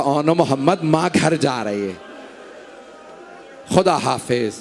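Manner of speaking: low, hushed goodbye, pitch dropped well down; soft-voiced farewell. Mother bidding her son goodbye at his grave, quiet and low. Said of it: "एक धीमे आवाज में कहा".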